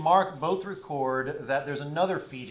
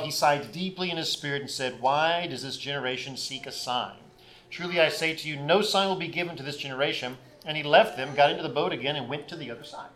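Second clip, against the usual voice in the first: raised, declaiming Bible reading voice; louder public scripture reading; 3 dB louder than usual. Acted. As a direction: read the passage out to the congregation with weight. Reads the Gospel passage aloud.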